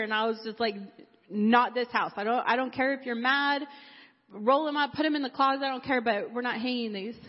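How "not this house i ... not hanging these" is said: firm, mildly angry refusal; ready to fight. Retold or imitated. Mother refusing daughter's posters, firm and mildly angry. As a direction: push back at the daughter, half-heated. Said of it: "I was getting ready to fight her".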